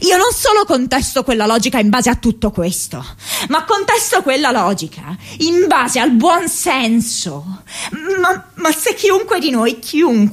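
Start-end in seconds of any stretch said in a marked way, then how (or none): 3.5-10.2 fighting back sobs mid-argument; voice breaking into tears. Acted. Daughter pleading with her mother, voice cracking with tears. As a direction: pitch jumps high as the voice cracks with crying.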